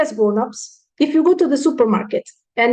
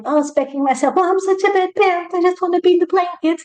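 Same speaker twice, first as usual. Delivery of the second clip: high-pitched, put-on poor-me moan; mock self-pity; 5 semitones higher than usual. Parent beating themselves up over mistakes, mock self-pity. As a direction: imitate a parent wallowing in guilt. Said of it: "snap out of your self-pity".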